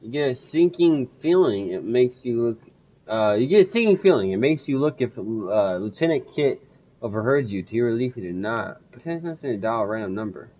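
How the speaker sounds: steady storytelling read of the game text; game narration. Acted. Reads game text aloud.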